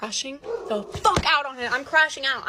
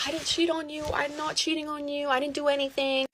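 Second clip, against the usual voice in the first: higher, softer retold brush-off; nonchalant; 3 semitones higher, 5 dB quieter than usual. Boyfriend denies cheating to girlfriend, nonchalant. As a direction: imitate a softly offhand denial. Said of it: "He's just being so nonchalant".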